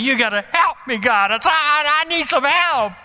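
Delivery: lightly voiced desperate begging; panicked plea. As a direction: plead with God, mildly frantic. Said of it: "I heard myself do that".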